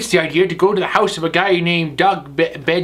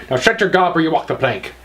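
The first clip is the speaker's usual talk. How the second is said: pirate voice. Acted. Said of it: "I be Cowhead the Pirate".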